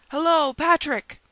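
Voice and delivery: high, loud, drawn-out summons; calling out. A narrator's reading. Duke summoning his attendant Patrick, calling out loudly. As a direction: call slowly to someone in another room.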